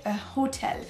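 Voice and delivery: "hotel" with a clearly breathed initial H; English pronunciation, audible H at the start of "hotel"; sounded English H. Shown as a demonstration. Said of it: "il faudra bien prononcer le H".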